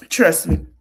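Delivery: a knowing whisper; whispered aside. Real, not acted. Commentator warning future boy moms, whispered. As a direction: drop to a whisper and confide it.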